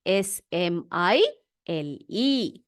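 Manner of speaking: letters spelled out one by one, slow; spelling aloud slowly. Shown as a demonstration. Teacher dictating spelling to children, slow letter by letter. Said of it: "लिखिए स्माइल".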